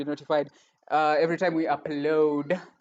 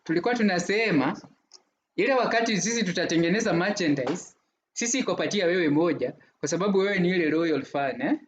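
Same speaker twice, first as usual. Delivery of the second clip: lightly put-on accent in Swahili. Host promising a loyal fan merchandise, put-on Swahili accent. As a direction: slip into a playful Swahili accent, slightly lifted. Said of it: "why that accent just came".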